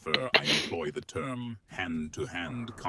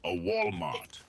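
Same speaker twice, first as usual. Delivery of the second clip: voice crack; 12 semitones higher, 14 dB louder than usual. Acted. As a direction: voice cracking up high. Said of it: "That was a voice crack".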